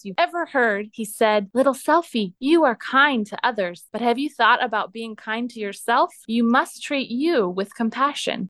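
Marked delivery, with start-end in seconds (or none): 1.5-8.5 lightly raised, gentle deer voice; kind deer voice. Acted. Kindness the deer gently advising Little Selfie, lightly raised kind voice. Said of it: "In the kindest, most deer-like voice".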